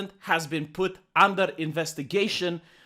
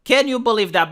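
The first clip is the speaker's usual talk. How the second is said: same line pushed louder, mock shock; louder sarcastic outrage; 3 semitones higher, 4 dB louder than usual. Shown as a demonstration. Sarcastic host repeating his fake outrage. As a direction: hit it again with mock indignation. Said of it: "repeated louder".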